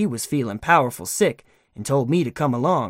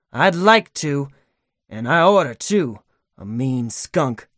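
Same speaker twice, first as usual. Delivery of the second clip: menacing; slower than usual. Acted. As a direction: threaten him, then drag out the last insult. Gunman threatening tied man.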